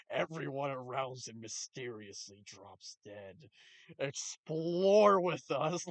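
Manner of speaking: mock spooky narrator voice, dragging explore with us slowly; mock ominous trailer. Shown as a demonstration. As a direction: read the title like a spooky documentary teaser. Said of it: "the fucking titles are just fucking hilarious".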